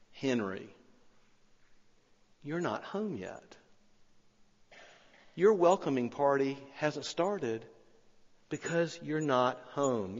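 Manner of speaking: soft, hushed and gentle, like a quiet inner voice; a gentle hush, voicing the Holy Spirit; small still voice. A narrator's reading. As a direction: speak it softly, as a tender whisper of the Spirit. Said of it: "a small voice came to him".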